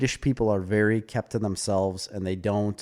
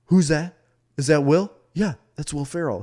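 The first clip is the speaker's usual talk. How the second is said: higher-pitched imitation of curious tourists; loud American tourists; 5 semitones higher, 3 dB louder than usual. Americans on a boat spotting Will Ferrell, imitated loud chatter. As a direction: mimic tourists excitedly spotting a celebrity. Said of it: "'Cause they're so loud".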